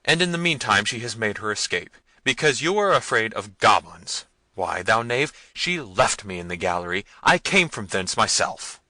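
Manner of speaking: loud scolding; angry prince. A narrator's reading. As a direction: berate the cowardly servants.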